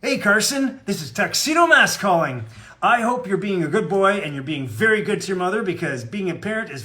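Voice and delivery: a hint of a heroic cartoon hero greeting a young fan; Tuxedo Mask voice. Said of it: "say hi to Carson in your Tuxedo Mask voice".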